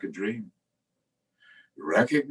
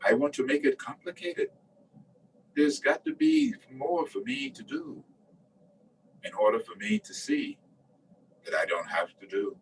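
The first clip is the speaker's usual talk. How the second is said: lightly voiced student, higher pitched; imagined student; 4 semitones higher, 4 dB quieter than usual. Teacher voicing a student who wants it complicated, higher. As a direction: raise the pitch for a mildly protesting doubter. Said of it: "And then you might say".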